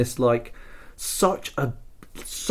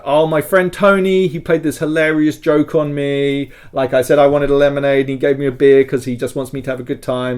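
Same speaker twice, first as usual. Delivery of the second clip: playing tipsy Francis; 2 semitones higher, 4 dB louder than usual. Francis explaining Tony's beer prank, giddy tipsy and fast. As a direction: babble like a drunk covering for his friend. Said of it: "It says, like".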